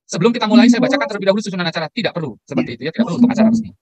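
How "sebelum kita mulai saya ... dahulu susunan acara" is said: mock MC announcement. Imitating an MC reading the programme.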